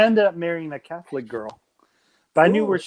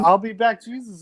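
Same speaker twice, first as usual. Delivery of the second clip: put-on British accent; 5 semitones higher than usual. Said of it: "the British accent Jesus".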